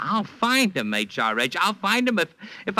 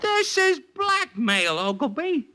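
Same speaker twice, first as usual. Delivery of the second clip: slow, much higher, shouted accusation; slowed-down cry of outrage; outraged accusation; 11 semitones higher, slower than usual. Acted. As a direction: spit out the accusation in fury. Leo outraged by detective's refusal.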